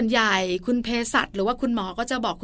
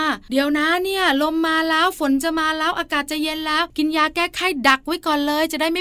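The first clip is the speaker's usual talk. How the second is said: a lightly voiced fussing elder, pitched up; worried grandparent; 6 semitones higher than usual. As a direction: mimic a grandma warning ahead of the rain, a touch higher. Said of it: "มักจะบอกว่า". (เลียนเสียงผู้สูงอายุที่ห่วงหลาน เสียงสูงขึ้นเล็กน้อย)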